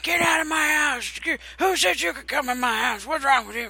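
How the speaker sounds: put-on high, loud cranky old-man yell. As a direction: scream at intruders like a crotchety old man. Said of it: "I got to play an old cranky man".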